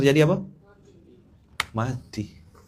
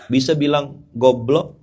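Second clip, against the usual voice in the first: mock provocation; 4 semitones higher, 4 dB louder, slower than usual.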